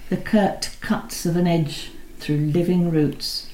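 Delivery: measured, unhurried reading of a poem; poetry reading. Acted. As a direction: let each image land with a pause after it. The speaker reads a Heaney poem.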